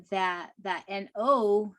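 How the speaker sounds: "N O" spelled letter by letter; name the letters "N O" with weight on the O. Shown as a demonstration. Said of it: "think of it as it separating".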